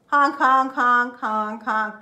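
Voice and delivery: loud honking like geese; lightly voiced goose honks. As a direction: honk it out as a goose. Geese talking to the mice.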